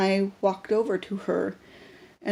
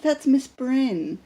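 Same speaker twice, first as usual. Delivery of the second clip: excited recognition; 6 semitones higher, much slower than usual. Retold or imitated. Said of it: "she'll be like".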